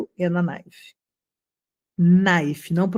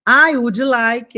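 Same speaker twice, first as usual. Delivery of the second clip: I would like said slowly and louder, word by word; slow clear model; 5 dB louder, much slower than usual. Shown as a demonstration. Teacher replays phrase for students, slow and clear. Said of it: "Deixa eu voltar um pouquinho".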